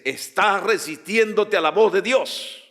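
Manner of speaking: commanding prophetic warning; prophet's authority. Shown as a demonstration. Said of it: "como un profeta. Habla con autoridad".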